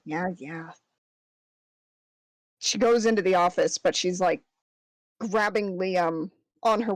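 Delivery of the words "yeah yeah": quiet brush-off yeah yeah; dismissive. Acted. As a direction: wave it away. Waves her hand off.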